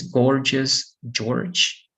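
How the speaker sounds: "gorgeous" with hard then soft G; "George" with J sound at both ends. Shown as a demonstration. Teacher modelling practice words for students, hard and soft G. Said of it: "All right, to practice".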